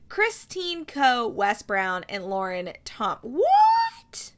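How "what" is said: very high, loud drawn-out squeal; astonished outburst. Real, not acted. Host startled by a cast name, high astonished squeal.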